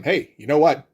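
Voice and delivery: mock-casual, calm declaration; understated, conversational hero line. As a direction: tell them evenly, no exclamation. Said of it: "where he just calmly tells them".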